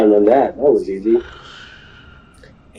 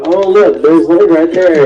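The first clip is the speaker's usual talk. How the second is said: excited Luffy; 7 semitones higher, 3 dB louder than usual. Retold or imitated. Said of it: "he's like".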